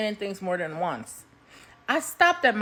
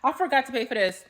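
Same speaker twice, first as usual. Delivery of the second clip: mock polite; 4 semitones higher, 4 dB louder than usual. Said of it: "walk back in there and say".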